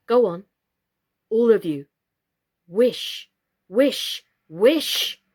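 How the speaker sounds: loud, firm urging; urging Totty. A narrator's reading. Totty urging all the dolls to wish, loud and firm. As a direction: push everyone to wish. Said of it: "said Totty".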